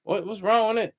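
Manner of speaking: lightly put-on complaining voice; caricatured grumbling; mock complaining. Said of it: "they complain about".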